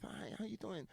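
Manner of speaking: Mike Tyson. Retold or imitated. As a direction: play the boxer chatting up girls. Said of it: "Why does Mike Tyson".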